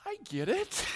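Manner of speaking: high, delighted eureka; light up as it finally clicks; sudden realization. Retold or imitated. Pastor recalling the movie, delighted realization. Retold moment of sudden understanding.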